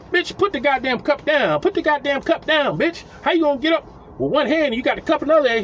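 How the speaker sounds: high mock scolding. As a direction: chew her out, high and fast. Scolding drunk woman.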